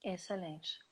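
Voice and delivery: whispered under the breath. Real, not acted. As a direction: whisper it softly. Quiet approval during online chat.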